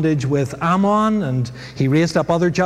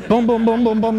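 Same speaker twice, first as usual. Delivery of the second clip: higher, louder drum beats spoken out; imitated drum booms; 5 semitones higher, 5 dB louder than usual. Preacher mimicking the noise of Gideon's army, booming. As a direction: beat the words like a one-man band.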